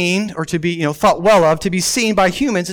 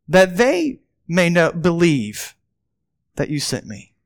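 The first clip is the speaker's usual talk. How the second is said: quiet prayer voice; 3 semitones lower, slower than usual. A narrator's reading. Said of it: "and he said".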